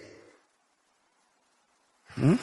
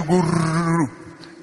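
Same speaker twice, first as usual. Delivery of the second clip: imitated gulping; 4 semitones higher, much slower than usual. Imitates colleagues gulping hot tea.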